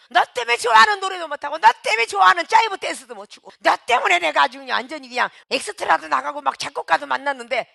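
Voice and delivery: a churchgoer loudly blaming the one who brought them; resentful blaming rant. Retold or imitated. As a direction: hammer every "너 때문에" in a fast loud rant. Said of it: "이런 소리를 했겠어요?".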